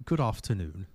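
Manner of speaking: mild British accent, imitating; a light posh British greeting. Host imitating a British caller in a mild British accent.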